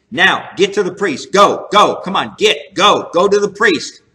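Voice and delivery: insistent repeated commands, pushing him off; emphatic orders. Retold or imitated. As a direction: drive him out with firm urgent orders. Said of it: "He's straightly charged".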